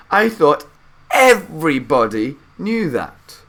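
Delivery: put-on high, loud old man marvelling; Grandpa Joe enthusing. A narrator's reading. Grandpa Joe praising Willy Wonka to Charlie, excited old man's voice. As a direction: gush like a thrilled old grandfather.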